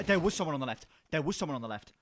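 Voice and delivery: loud, heroic English anime dub voice; earnest determined anime hero. Pretend. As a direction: declare it like a bold anime protagonist. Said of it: "That typical English anime protagonist voice".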